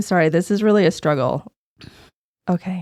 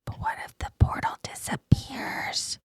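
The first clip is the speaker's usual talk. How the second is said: slow anxious whisper; 7 dB quieter, slower than usual. Acted. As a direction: breathe the worry out quietly. Sneaking near portal, hushed talk.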